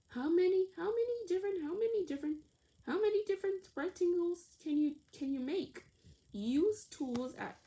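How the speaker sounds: lightly voiced teacher, lively; teacher instructing. Teacher giving children the rectangle puzzle, lively and encouraging. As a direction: set the task for the class brightly.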